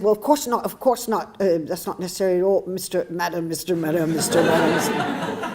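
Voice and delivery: high, hurried apology with a laugh creeping in; flustered worker. Retold or imitated. Worker backing down to the guest, high and flustered with a laugh. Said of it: "he said".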